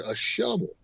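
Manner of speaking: softly imitated creepy spirit; hint of a growly entity. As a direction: answer like a ghost, a light creepy growl. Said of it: "you hear this growly, creepy voice say".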